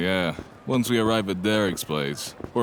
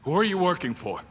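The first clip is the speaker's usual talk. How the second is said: much higher demanding call; demanding shout; 11 semitones higher than usual. Acted. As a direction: force an answer. Sam confronts the villain.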